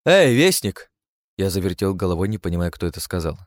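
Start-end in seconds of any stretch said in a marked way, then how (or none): 0.1-0.9 high, loud call; a captive elf calling out to the herald. Acted. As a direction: shout to get his attention.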